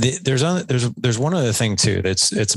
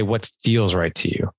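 curious. Shown as a demonstration. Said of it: "it's more of a curious tone".

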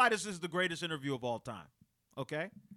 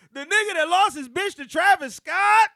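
higher, louder scornful quote; mocking jab; 10 semitones higher, 9 dB louder than usual. Retelling the rapper dissing a rival, scornful. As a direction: throw the insult. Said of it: "He said".

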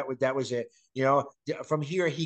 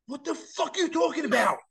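mock outrage; 12 semitones higher than usual. Fan retelling her reaction to the prank, mock outraged.

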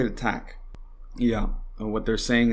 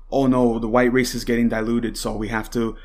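mock panic; 3 dB louder than usual. Mocking racist panic.

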